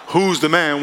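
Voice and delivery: a light mock shout of "Who's the man?". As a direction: call it across the mall, playfully. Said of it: "you hear someone shout".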